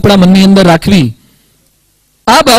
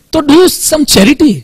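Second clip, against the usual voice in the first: slow exhortation; 7 semitones higher, much slower than usual. Real, not acted. Exhorting listeners.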